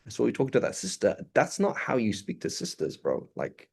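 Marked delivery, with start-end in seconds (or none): 0.1-1.2 softer, a quiet aside to the sheikh; a hushed private rebuke to the sheikh; private word. Retold or imitated. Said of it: "You privately sit with the sheikh".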